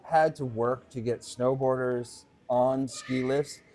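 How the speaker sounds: high, loud mock-outraged old-timer rant. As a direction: rant like an indignant snowboard veteran. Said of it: "Time for a rant".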